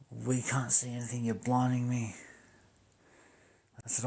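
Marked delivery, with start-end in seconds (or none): 0.1-2.1 higher, louder imitated complaint; protesting police officer. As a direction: complain like a dazzled cop, pitched up. Retold protest of blinded police.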